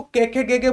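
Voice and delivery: "कै, खे, गे, गे" with e vowels; wrong letter names. Shown as a demonstration. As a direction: wrongly end each letter in e. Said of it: "ये दोनों ही उच्चारण इसके गलत हैं".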